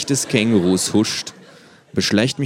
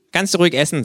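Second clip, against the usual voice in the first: mouth full; 11 semitones higher, 6 dB louder, faster than usual. Acted. Kangaroo character voice.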